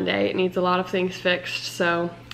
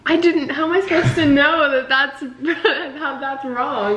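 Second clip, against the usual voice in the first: defensive protest; 6 semitones higher than usual. Real, not acted. Laughing protest at being blamed.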